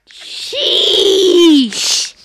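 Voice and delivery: loud laughing exclamation; laughing shout. Real, not acted.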